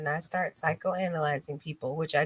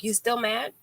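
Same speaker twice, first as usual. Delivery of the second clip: gentle check-in; 4 semitones higher than usual. Retold or imitated. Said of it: "I'm still gonna call you and be like".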